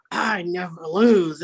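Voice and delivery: slow, drawn-out boast; mocking quote. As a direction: lightly imitate a man drawing out his boast. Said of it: "He's like".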